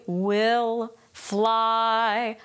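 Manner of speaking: "will" begun with a gliding W, sung; sung "will fly" with a clear W glide. Shown as a demonstration. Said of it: "that is a glide".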